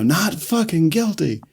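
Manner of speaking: slow it down and lift the pitch as Kevin; Kevin's admission. Retold or imitated. Recapping Kevin's confession to a co-host, acted slow and high. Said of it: "Kevin gives it up that".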